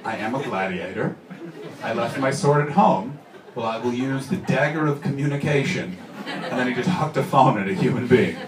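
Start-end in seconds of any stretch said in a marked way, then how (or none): 0.0-6.0 mock-grand gladiator declaration; lightly voiced self-important star, measured and solemn; Russell Crowe. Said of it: "someone interrupts him and he goes".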